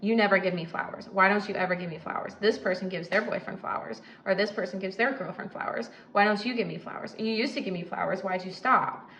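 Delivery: fast, whiny nagging about flowers; nagging complaint. Retold or imitated. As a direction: nag him like a wounded girlfriend. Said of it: "she goes".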